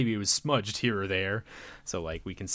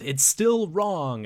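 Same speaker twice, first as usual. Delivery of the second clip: put-on slow firm girl; 9 semitones higher, 4 dB louder, much slower than usual. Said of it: "interrupts and says".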